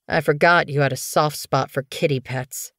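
understated growling jibe; growled taunt. Acted. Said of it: "Thistleclaw growled".

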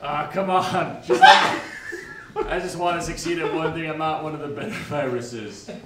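cute germ voice. Acted. Dejected virus character.

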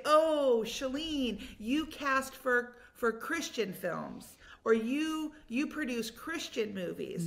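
a light mocking imitation; mock label quote. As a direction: mimic people boxing her in, slowly. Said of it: "So they say".

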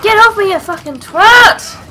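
real furious shout at an attacker; furious yell. Real, not acted. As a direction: bellow it at the thing clawing you. Attacked by enemy, yells.

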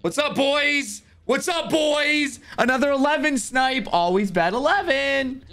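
hyped gamer bro. Real, not acted. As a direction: crow to the chat, pumped up. Gloating after winning number hits.

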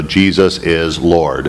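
slow, empty recitation of "Jesus is Lord."; parroted by rote. Shown as a demonstration. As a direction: rattle off "Jesus is Lord." like rote words with no meaning. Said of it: "parrot out".

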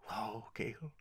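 soft whispered sigh of her name. Acted. Horion whispering to his grieving sister, soft whisper.

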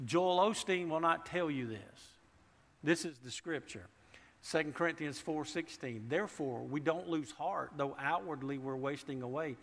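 rising full-force preacher; preaching. Acted. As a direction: drive the point home to the congregation.

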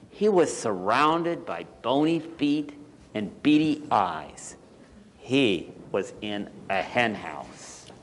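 measured picture-book narration with lingering key words; story read to children. A narrator's reading. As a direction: read it to small children, pausing between phrases.

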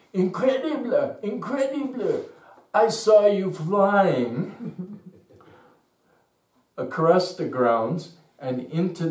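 very high, loud, slowed cries breaking into laughter; thrilled woman laughing in disbelief; amazed gushing. Retold or imitated. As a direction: gush with wonder, laughing as you tell it. Italian woman retells the miracle.

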